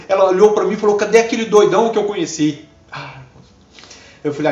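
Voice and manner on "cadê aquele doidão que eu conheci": higher and louder, incredulous; amazed question. Retold or imitated. Girl asking where the old wild guy went, amazed.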